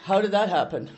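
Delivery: loud, high mock amazement; addict's disbelief. The addict inside marvelling at her sobriety, loud surprise. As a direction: play the baffled addict within. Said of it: "the addict in me just kinda goes".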